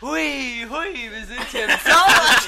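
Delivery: excited. Acted. Hammed-up host intro, shouting.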